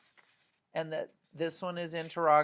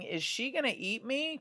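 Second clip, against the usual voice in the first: worried question; 8 semitones higher than usual. Acted. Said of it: "he could be asking".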